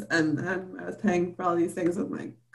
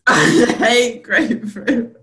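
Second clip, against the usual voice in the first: repeats it slower, laughing; laughing retry; 2 semitones higher, 5 dB louder, slower than usual. Retold or imitated. Laughing as she retries the accent for her friend. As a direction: try the accent again through laughter. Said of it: "That was the worst accent".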